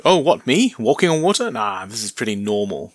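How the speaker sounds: breezy mock-nonchalant Jesus; casual, nonchalant. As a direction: shrug it off like walking on water is nothing. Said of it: "It's that kind of tone".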